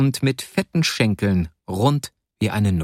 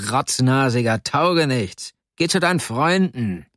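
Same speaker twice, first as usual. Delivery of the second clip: high-pitched, irate man's tirade; furious scolding; 4 semitones higher than usual. A narrator's reading. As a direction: berate the boy and chase him out. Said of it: "der wütende Verfolger".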